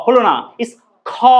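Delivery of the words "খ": "খ" with air rushing out; breathy release on "খ"; aspirated kho. Shown as a demonstration. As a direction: let a burst of breath out on "খ". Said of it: "বাতাস বের হয়ে আসছে".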